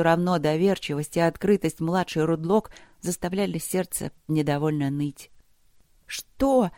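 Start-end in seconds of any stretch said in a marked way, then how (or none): 6.1-6.7 put-on high, indignant girl's "what?". A narrator's reading. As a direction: shoot it up high in mild outrage. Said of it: "возмутилась девочка Юноти". (возмущённо, высоким голосом)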